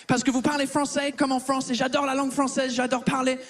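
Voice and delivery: lightly put-on English accent in French; fake English accent. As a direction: play the Brit who mangles French. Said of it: "cet accent de merde". (faux accent anglais léger)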